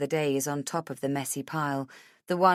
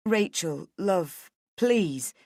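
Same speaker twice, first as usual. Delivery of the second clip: gently pleading husband; much slower than usual. A narrator's reading. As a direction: beg her to stop.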